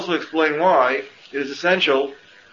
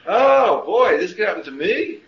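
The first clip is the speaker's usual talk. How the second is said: mock disbelief; 6 semitones higher than usual. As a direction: play up their naive shock with a scoffing edge. Mocking people shocked by news.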